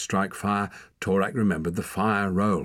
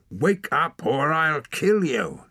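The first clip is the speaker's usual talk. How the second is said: loud, high, slow snarled threat; snarling; 9 semitones higher, 5 dB louder, slower than usual. A narrator's reading. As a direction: snarl it loudly, word by word. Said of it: "he snarled".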